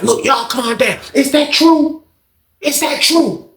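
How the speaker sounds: high questioning voice; lady's voice. Retold or imitated. Lady asking the men if it's true, high voice.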